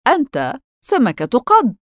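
high-pitched declaration, falling on قد; ready retort. A narrator's reading. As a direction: declare سمكة قد firmly, stretched out. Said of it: "فأجاب بيتر بسرعة".

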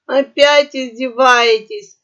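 high, loud, slow sobbing squawk. A narrator's reading. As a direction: burst into sobs as you ask. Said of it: "громко разрыдалась попугаиха".

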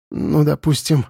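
rasping out of breath; hoarse. Acted. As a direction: croak it while catching breath. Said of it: "прохрипела Лера".

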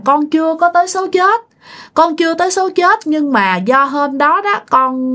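high, tearful pleading from a possessed aunt; crying spirit voice. Retold or imitated. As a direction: lightly mimic a weeping ghost speaking through someone. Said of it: "mợ mới vừa khóc vừa nói nha". (giọng vong hồn nhập xác, cao và nghẹn khóc)

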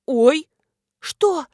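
loud startled yelp; startled cry. A narrator's reading. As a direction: jump back in fright. Nina startled.

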